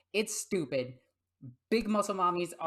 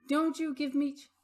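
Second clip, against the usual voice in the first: higher, louder mock telling-off; mock scolding; 9 semitones higher, 5 dB louder than usual. Real, not acted. Scolding her cat Kovu, higher mock scold. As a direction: scold the cat half-seriously.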